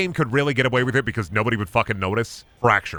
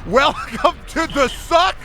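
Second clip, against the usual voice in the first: slow, much higher, laughing through it; laughing high drawl; slower than usual. Shown as a demonstration. To a friend, savouring the achievement name, laughing and stretched. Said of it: "The game just got so much fucking better".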